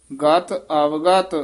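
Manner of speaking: slow ਅਵਗਤ without a long i. Shown as a demonstration. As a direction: say ਅਵਗਤ slowly, no ee after v. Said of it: "ਅਵਿਗਤ ਬਿਹਾਰੀ ਨਹੀਂ ਲਾਉਣੀ".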